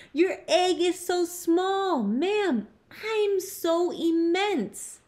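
high-pitched, incredulous protest; astonished elephant, pitched high. A narrator's reading. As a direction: draw out the last words in disbelief.

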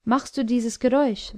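the king rounds on the dwarf, angry and loud; furious demand. Acted. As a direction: hammer the question at the dwarf in rage. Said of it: "wandte sich der König wütend".

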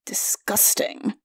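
hushed, disgusted aside; muttered disgust. A narrator's reading. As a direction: mutter it under your breath, drawn out. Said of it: "he muttered".

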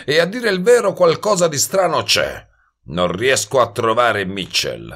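lightly voiced cocky talker, pitch rising as he goes; a hint of a brash hustler explaining himself; brash wise guy. (sbruffone appena accennato che si spiega)

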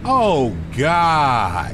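sudden loud dismay; dismayed exclamation. Real, not acted. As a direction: blurt it out as the exit slips by. Realizes he missed his exit.

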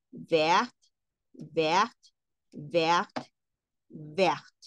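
vert said the French way, silent t. Shown as a demonstration. Teacher models vert for the class in French. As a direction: say vert like vair, no t sounded. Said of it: "sucede lo mismo que con bleu".

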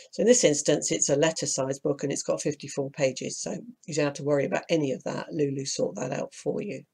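croaky from hay fever; hoarse, croaky throat. Real, not acted. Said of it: "Excuse my croaky voice".

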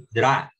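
"dra" said as a strong stressed DRA. Shown as a demonstration. Teacher shows students the accent, "dra" stressed alone. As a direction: isolate "dra" with the accent on its vowel. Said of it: "acento en la A".

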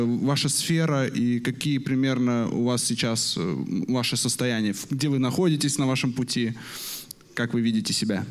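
normal talking voice

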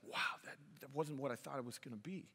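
put-on whispered, soft and quick disappointed child; whispered disappointment. Son muttering his disappointment to dad, whispered. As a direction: breathe it out like a let-down kid. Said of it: "He's like".

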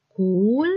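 Кульбабка split as куль, баб, ка with clear pauses; syllable by syllable. Shown as a demonstration. Teacher dividing a word for pupils, pausing between syllables. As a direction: break Кульбабка into three separate syllables. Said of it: "По складах, як ми промовляємо?".

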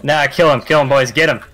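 loud urgent call; rally the team loudly; urgent shout. Real, not acted. Urging team in fight.

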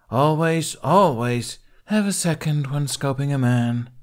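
flippant. A narrator's reading. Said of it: "Kamikaze finished, flippant".

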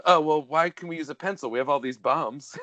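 lightly voiced nondescript European accent; Renny Harlin. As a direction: put on a hint of vague European accent. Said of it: "it's what I'm doing when I do Renny Harlin".

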